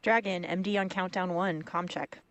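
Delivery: heard over a radio link; astronaut radio. Real, not acted. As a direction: voice through a comm headset. Crew checks radio comm loops.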